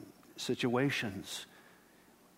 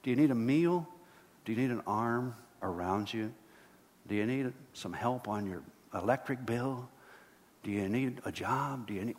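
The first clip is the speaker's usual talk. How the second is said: gentle caring. Retold or imitated. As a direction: ask it tenderly like a caring friend. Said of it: "We say".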